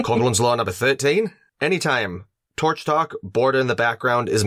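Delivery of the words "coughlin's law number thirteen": put-on Aussie announcement; Australian accent. Co-host announces a drinking-game rule, mock Australian accent. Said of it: "keep saying that in the accent".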